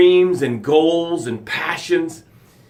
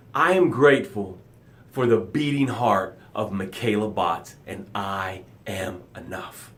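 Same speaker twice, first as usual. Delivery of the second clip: soft gratitude demo; 7 semitones lower, 6 dB quieter than usual. Shown as a demonstration. Host showing viewers a gratitude, soft and low. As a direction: say your thanks gently, sinking into it. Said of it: "That's how it sounds".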